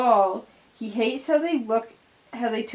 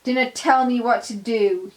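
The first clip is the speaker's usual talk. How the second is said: angry yell; 2 semitones higher, 5 dB louder than usual. Acted. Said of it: "he yells".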